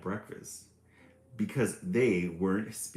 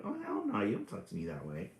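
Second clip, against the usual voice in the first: sassy; 4 dB quieter, faster than usual. Retold or imitated. Sassy sister voiced by reader.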